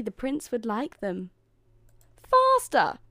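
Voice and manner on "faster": high, loud bossy shout; shouted order. A narrator's reading. Stepsister ordering Cinderella about, shouting. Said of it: "shouted one stepsister".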